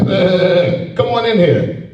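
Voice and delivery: a lightly bleated bah, then welcoming; sheep bleat. Retold or imitated. Preacher mocking his people as sheep, light bleat. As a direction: bleat like a naive sheep waving them in. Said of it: "We sheep".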